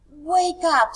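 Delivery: sudden high loud shout; loud wake-up call. Acted. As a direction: call out like waking a sleeping bear. Teacher acting bears waking up.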